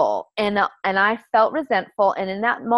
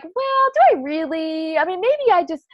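reluctant inner voice; 8 semitones higher than usual. Retold or imitated. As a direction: drag it out, half-unwilling. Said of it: "I'm like".

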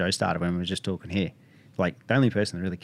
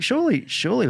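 much higher, sing-song mock quote; mocking naivety; 4 dB louder than usual. Imitating the friend who trusts pharma, mocking. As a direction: parody the gullible friend. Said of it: "But it's like".

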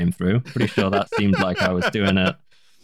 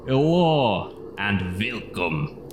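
slow, drawn-out vampire greeting; a hint of a vampire count, slowly; much slower than usual. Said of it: "vampire voice".

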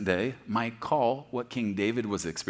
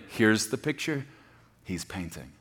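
ordinary talk

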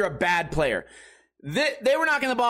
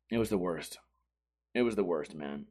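much softer and lower; deflated; 12 semitones lower, 8 dB quieter than usual. Real, not acted. Comic looking back on the worst night, deflated and soft. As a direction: let it sink to a low, weary aside.

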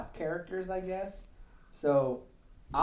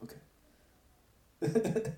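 slow deflated voice; 6 semitones higher, much slower than usual. Retold or imitated. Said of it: "And he goes".

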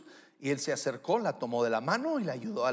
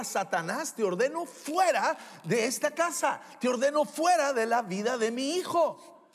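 firm, raised command with punched words; declaring with authority; 5 semitones higher, 3 dB louder than usual. Shown as a demonstration. Father as priest of his home ordering Satan out, authoritative. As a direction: order the enemy out, forcefully. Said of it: "toma autoridad y declara".

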